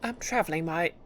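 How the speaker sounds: wandering hero. Acted. Traveler answers the flea master, lightly acted. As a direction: lightly act a reserved traveler's reply. Player voices the hero's reply.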